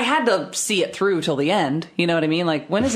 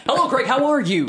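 radio voice; 7 semitones higher than usual. Retold or imitated. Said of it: "they actually use their radio voice".

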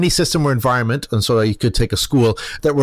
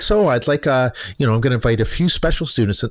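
creepy voice. Retold or imitated. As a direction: coax them in, unsettlingly. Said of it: "Sorry, I'm doing the creepy voice".

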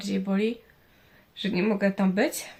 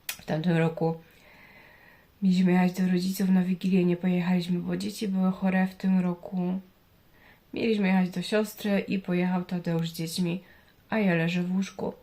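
blocked nose. Real, not acted. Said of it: "Jak słychać, mam zatkany nos".

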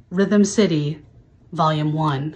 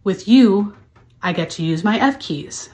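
overwrought dramatic poetry recital; hammy stage actor. Acted. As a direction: recite it like a grand soliloquy. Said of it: "to recite the lyrics".

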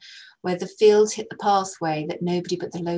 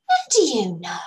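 suspicious question; 4 semitones higher, 6 dB louder than usual. Acted.

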